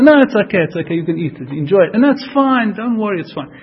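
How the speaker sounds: mock easygoing brush-off; dismissive. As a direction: wave the worry away, starting high and loud. Voicing people who shrug off rules.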